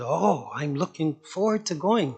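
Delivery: put-on mild Indian accent. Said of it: "with his accent".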